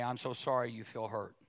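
soft, gentle apology to a hurt wife; quietly sorry, no defence; tender apology. Shown as a demonstration. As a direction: say it softly and sincerely, like you mean it. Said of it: "You ought to look and say".

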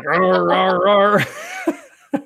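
playful dinosaur roar, rising into laugh; huge fiery dragon roar. Pretend. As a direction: growl it like a toy dinosaur. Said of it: "you gotta make the noise like".

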